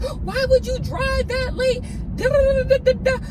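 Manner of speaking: high-pitched imitation of an angry mother; pissed-off mom. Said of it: "my mom was so pissed".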